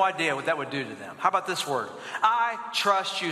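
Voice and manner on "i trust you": slow, deliberate phrase for repeating; measured call-and-repeat delivery; leading a recitation. Shown as a demonstration. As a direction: say it slowly for a crowd to echo. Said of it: "Say that with me".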